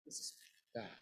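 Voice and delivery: "This is" quick, then "bad" alone; pause, then drop "bad"; emphasis on "bad". Shown as a demonstration. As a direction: set "bad" apart after a short gap. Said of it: "I emphasize the word bad".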